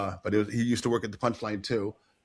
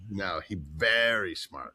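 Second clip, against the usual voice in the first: imitating Tim Wilson; 7 semitones lower, 5 dB quieter, slower than usual. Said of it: "you got that talk the way he talks like this".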